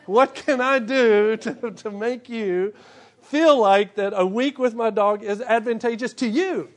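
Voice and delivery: butter up the friend with a drawn-out ask; mock pleading request. Preacher mimics begging a friend to keep his dog, slow mock plea.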